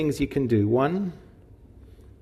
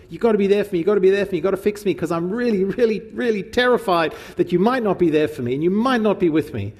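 pleading, insistent and a little higher; mock clingy partner pleading; anxious demanding plea; 5 semitones higher than usual. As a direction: beg like someone terrified of being left. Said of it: "Anxious, demanding".

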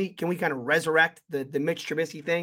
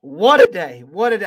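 excited shout; 3 semitones higher, 9 dB louder than usual. Real, not acted. Gleeful exclaiming over the win.

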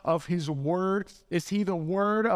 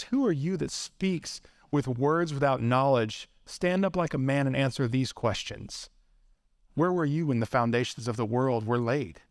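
lightly voiced God, lower and measured; God rebuking Job; 5 semitones lower than usual. God questions Job out of the whirlwind, low and stern. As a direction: drop the pitch for a grave challenge.

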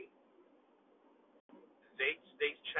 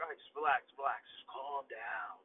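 calming himself. Retold or imitated. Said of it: "and I'm like".

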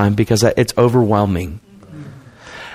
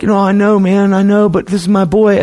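distraught father; 9 semitones higher than usual. Retold or imitated. Frightened father about sick son.

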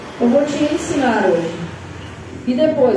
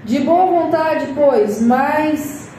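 slow, weighty Bible reading; solemn scripture reading; slower than usual. Acted. Pastora reads Paul's words to the church, slow and solemn. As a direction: read each word as holy text.

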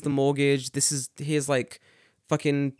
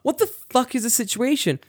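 exasperated shout; 10 semitones higher than usual. Retold or imitated. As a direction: shout it in disbelief. Exasperated disbelief.

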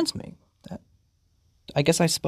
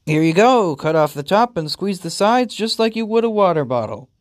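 lightly voiced chipper instruction; a raised, breezy how-to delivery; owner handing over; 3 semitones higher, 3 dB louder than usual. Owner explains feeding to pet, helpfully.

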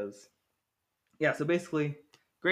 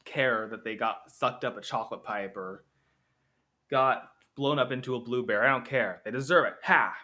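gloating; 4 dB louder than usual. Pretend. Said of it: "you could be like".

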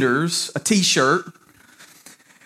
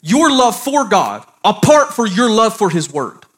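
emphatic, raised preaching voice; 6 semitones higher, 4 dB louder than usual. Real, not acted. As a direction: preach it firmly in measured phrases.

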